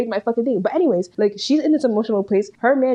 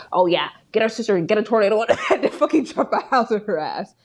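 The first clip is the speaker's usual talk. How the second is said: mocking imitation, laughing. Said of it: "pretend as if she said".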